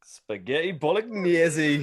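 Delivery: slow put-on Welsh gone Geordie; botched accent, drifting into Geordie; Geordie-sounding accent. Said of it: "why is that Geordie?".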